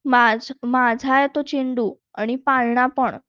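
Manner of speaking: put-on little girl mildly crying out no; mild shout. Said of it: "Anu ओरडली".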